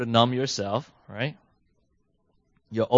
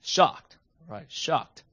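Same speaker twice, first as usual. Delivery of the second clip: shocked; 4 semitones higher, much slower than usual. Shown as a demonstration. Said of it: "that is probably the most common first reaction".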